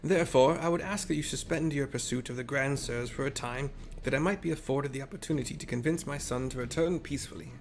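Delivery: lightly voiced old man; a hint of a frail elder; old people voice. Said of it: "Doing the old people voice".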